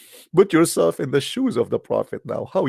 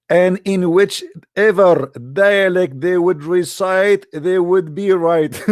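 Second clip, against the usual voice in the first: higher, very slow, mocking recital; mock solemn quote; 4 semitones higher, 4 dB louder, much slower than usual. Preacher mocking the final verse to his audience, slow and grand. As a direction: stretch out each word as a grand pronouncement, very slowly. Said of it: "Look what he said at the end".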